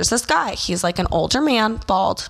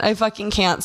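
usual speaking voice

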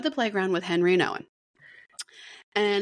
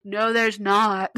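mock shout; 5 dB louder, much slower than usual. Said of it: "I'm shouting".

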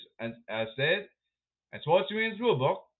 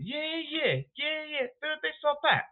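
excited cheering; 12 semitones higher than usual. Acted. Cheering player's hit.

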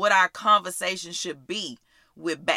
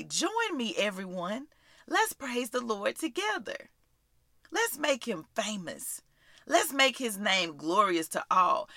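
softer, encouraging call to join in; gentle invitation; 4 dB quieter than usual. Shown as a demonstration. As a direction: draw the listener in gently. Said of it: "you're inviting them in and saying".

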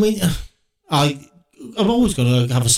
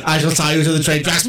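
mustache twirling villain; 4 semitones higher than usual. Pretend. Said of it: "I love mustache twirling villains".

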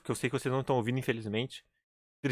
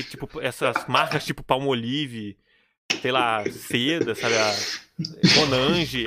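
listando devagar; much slower than usual. Real, not acted. Lista lenta de marcas.

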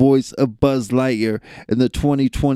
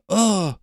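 imitated grunt; 7 semitones higher than usual. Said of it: "he just makes, like, a sound".

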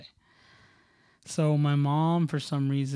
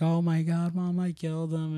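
panicked to mom; 4 semitones higher than usual. Retold or imitated. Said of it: "I run to my mom".

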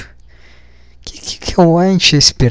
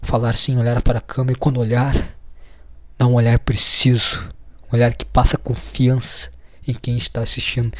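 mock guru self-coaching; 3 semitones lower, 6 dB quieter than usual. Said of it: "O cara ajeitando a postura dele".

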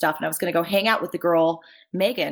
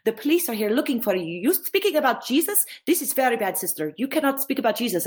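a hint of the host girl, higher and urgent; alarmed host girl; 6 semitones higher than usual. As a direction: warn her the police have come. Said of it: "and she's like".

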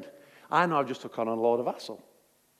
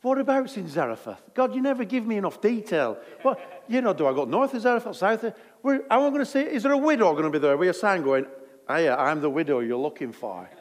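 flustered Elijah; 4 semitones higher than usual. Retold or imitated. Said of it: "and Elijah laughed".

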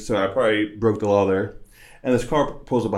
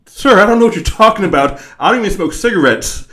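high panicked denial; 11 semitones higher, 9 dB louder than usual. Retold or imitated. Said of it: "And I'm like".

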